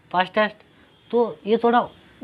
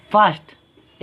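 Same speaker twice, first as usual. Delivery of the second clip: फास्ट as one unbroken syllable; 4 dB louder, much slower than usual. Shown as a demonstration. Teacher showing a one-syllable word, फास्ट said in one go. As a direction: say फास्ट straight through without a break. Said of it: "एक साथ".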